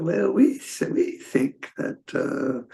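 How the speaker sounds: a lightly mocked, fussy French accent, high at first; a faint French accent, slow and fussy. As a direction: sketch a prim French cardinal. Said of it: "he's a very fussy, uh, accent".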